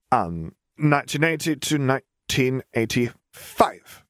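put-on high child voice, slowing toward the end; a little girl solemnly reciting her own obituary; young girl's voice. Girl reading her obituary aloud, high and earnest.

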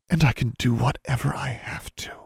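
put-on whispered, high girl's vow; soft whisper. A narrator's reading. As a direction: breathe it softly in a whisper. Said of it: "her voice was softer now".

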